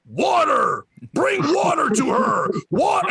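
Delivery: high-pitched, mock frantic cry for water; imitated screaming. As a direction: yell it like a panicked drunk friend. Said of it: "And they're screaming".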